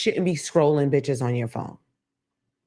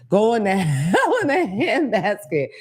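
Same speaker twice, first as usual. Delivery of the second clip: put-on slow, higher old-timer saying; old person voice; 5 semitones higher, slower than usual. Quoting an old person, slow old-timer voice. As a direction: drag it out like an old person, laughing. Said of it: "as some old person would say".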